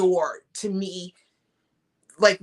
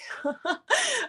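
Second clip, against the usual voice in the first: high giggle; 4 dB quieter than usual. Real, not acted. Laughing at a viewer's joke.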